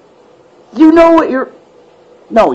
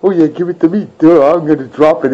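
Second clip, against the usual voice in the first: dopey mocking voice; faster than usual. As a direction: play it like a clueless dope. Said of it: "Busting Sony's balls like".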